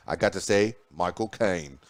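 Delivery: a quick playful Cockney Michael Caine impression. News host imitating Michael Caine in a light Cockney accent. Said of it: "You, you kinda say it in his Cockney voice".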